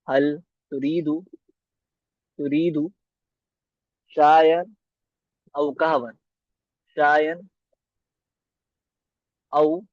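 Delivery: slowly, word by word, for students to write; slow dictation. Shown as a demonstration. Teacher dictating Arabic to students, slow and clear. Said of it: "जिस तरह मैं लिखूं".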